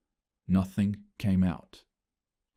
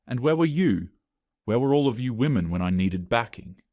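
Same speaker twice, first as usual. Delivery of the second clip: accusing outburst; 3 semitones higher than usual. Acted. Sarah rounds on her female colleagues, raised and accusing. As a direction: lash out at them.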